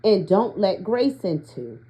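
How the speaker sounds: measured, deliberate card reading; read-aloud. Acted. Reader sharing an oracle card's guidance with listeners, measured read-aloud.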